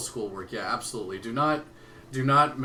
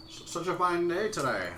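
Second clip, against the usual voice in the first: put-on Western accent; 8 semitones higher than usual. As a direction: mouth full. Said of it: "I can't do a Western accent with food in my mouth".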